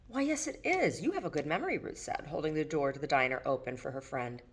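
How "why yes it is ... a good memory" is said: coy. Acted. Ruth coy, playful reply.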